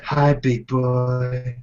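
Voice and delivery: slow, drawn-out flirty greeting; flirty lady voice. Retold or imitated. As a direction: stretch it out seductively.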